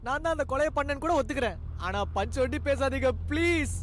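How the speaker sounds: exasperated plea. Acted. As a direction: beg them to cut the speeches, thoroughly fed up. Begging companion to stop punch dialogues.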